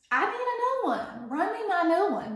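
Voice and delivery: emphatic demand. Real, not acted. Ranting, demanding new drink.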